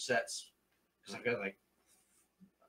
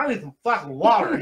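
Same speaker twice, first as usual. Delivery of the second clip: laughing plea; 6 semitones higher, 11 dB louder than usual. Retold or imitated. Dry mouth on stage.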